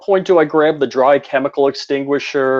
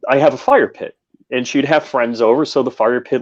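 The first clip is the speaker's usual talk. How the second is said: ordinary talk, nothing marked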